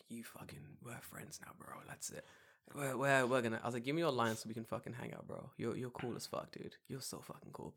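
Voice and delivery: soft unvoiced whisper, fast and eager; whispered retelling. Telling his co-host what he said to Yusei: breathless whisper. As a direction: whisper it like a secret excited confession. Retelling hyped reply to new friend.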